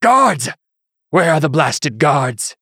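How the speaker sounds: high, loud, slow call; a bishop calls loudly for his guards. A narrator's reading. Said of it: "called out".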